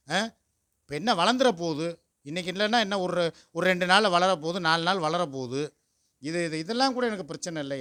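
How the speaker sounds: loud, emphatic self-justification; defensive rant. Real, not acted. Husband defends his shaved moustache. (உரத்த குரலில் நியாயப்படுத்துவது)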